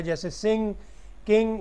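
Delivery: "सिंग, किंग" ending in ng with no hard g; velar nasal ending. Shown as a demonstration. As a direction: end "सिंग, किंग" on a nasal ng, the g left silent. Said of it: "उसमें ग नहीं होता".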